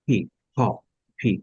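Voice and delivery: "ফি" and "খ" released with a little burst of breath; demonstrated airy release on "ফি"; puff of air. Shown as a demonstration. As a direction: aspirate the start of "ফি". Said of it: "একটু বাতাস বেরোবে".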